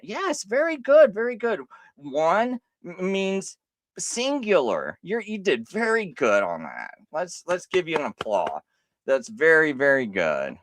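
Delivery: high, patronizing sing-song; condescending praise. Acted. Mocking his opponent like a teacher, condescending.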